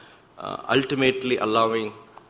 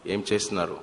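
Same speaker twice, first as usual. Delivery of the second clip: Swami's voice; 7 semitones lower, 7 dB quieter than usual. Retold or imitated. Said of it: "So he would just say".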